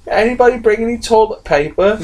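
high mock-plaintive plea; Rebel Wilson bit. Friend retelling a Pitch Perfect scene, high mock plea. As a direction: squeak it out like a stranded camper. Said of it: "she's like".

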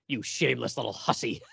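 mock scolding breaking into a laugh; hammed-up insult, cracking up on you; laughing through it. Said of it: "he looks at Mary Ann and goes".

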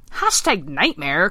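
slow, drawn-out frog quip; croaking frog. Acted. Vince mocking the failed kiss in tweet-speak, croaking. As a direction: stretch out the mock hashtag. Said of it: "croaked Vince".

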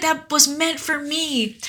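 a touch of mock despair, drawn out; mock tragic sigh of a line. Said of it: "she wants to die".

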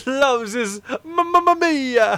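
hammed-up mamma mia. Mocking Italian catchphrase.

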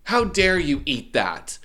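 mock outraged mother; outraged mom. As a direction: scold your daughter like a shocked mother. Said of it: "And she's like".

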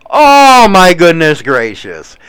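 shocked by the news, blurting it out; surprised gasp. Real, not acted. Reacting to hotel shooting.

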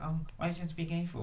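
whiny nerd troll voice; mock a whiny online nerd. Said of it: "I love your nerd voice".

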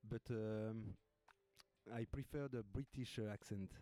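English in a light British accent; halting British-accented English on request; British accent demo. Shown as a demonstration. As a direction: show off a British accent, phrase by phrase. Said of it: "t'étais un pro-british".

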